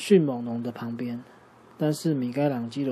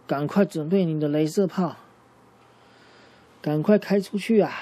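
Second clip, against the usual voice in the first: 急忙催促; 3 semitones higher, 4 dB louder than usual. Acted. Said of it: "跟多纳泰罗说".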